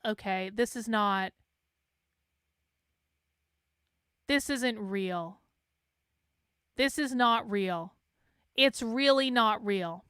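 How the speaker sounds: slow dazed disbelief; weary disbelief. Retold or imitated. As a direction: say it like you can't believe this is happening. Exasperated disbelief at the discourse.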